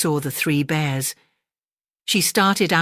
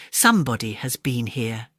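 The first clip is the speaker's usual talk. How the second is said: soft mother bear growl; 4 semitones lower than usual. Acted. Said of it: "Mother Bear growled more softly".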